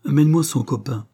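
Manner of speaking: order. Acted. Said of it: "ordonna Volpi".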